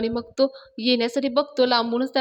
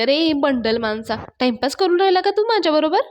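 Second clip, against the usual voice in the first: exasperated scolding; 5 semitones higher, 4 dB louder than usual. Acted. Nami tells off Raja for fooling her, exasperated scolding. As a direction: scold someone for wasting your time.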